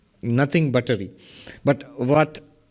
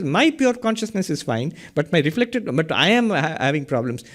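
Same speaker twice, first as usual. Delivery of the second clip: mock confused seeker. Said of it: "You're saying".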